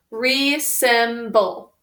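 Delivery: resemble stretched slowly; slow syllable-by-syllable. Shown as a demonstration. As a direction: draw resemble out for the class. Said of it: "Let's sound it out together".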